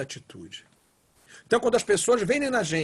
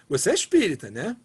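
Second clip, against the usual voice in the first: warm, impressed asking; admiring question. Shown as a demonstration. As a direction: ask it as praise for a good example. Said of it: "a mesma pergunta com entonações diferentes". (pergunta admirada, em tom de elogio)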